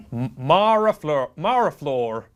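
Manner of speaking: "Marafleur" carefully, first syllable as in Mars; Mars-like pronunciation. Shown as a demonstration. Host retries donor's name, "Marafleur" careful with Mars sound. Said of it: "It's pronounced like the planet Mars".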